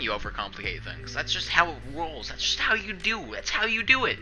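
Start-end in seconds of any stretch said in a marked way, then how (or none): 1.1-4.2 much higher playful singsong; high sing-song. Real, not acted. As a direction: toss it off in a lilting high voice. Rising sing-song catchphrase.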